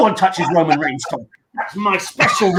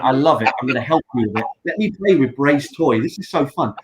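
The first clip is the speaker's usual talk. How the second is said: mock Vince voice; 6 semitones lower than usual. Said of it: "And Vince went".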